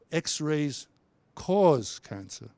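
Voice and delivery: "X-rays", pause, then slow "cause cancer"; pauses between words. Shown as a demonstration. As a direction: break it up, lean on "cause".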